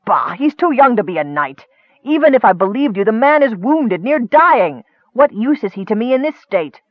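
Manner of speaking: mock-angry wizard scoffing; scornful wizard. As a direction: dismiss the goblin with contempt. Akar scoffs at goblin.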